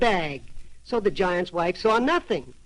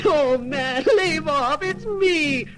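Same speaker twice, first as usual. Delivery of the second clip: high, louder panicked cry; wife crying out; 7 semitones higher, 4 dB louder, slower than usual. A narrator's reading. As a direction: beg him to stop, frantic from inside the bag. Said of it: "the giant's wife cried".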